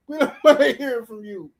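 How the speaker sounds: words broken by a laugh. Real, not acted. Telling Tank fans off, laughing mid-line. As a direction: let a laugh burst through the line. Still laughing at own joke.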